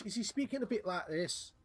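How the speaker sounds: a light Scottish accent demo; lightly put-on Scottish accent, asking the chat. Shown as a demonstration. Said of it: "Would you rather say Scottish?".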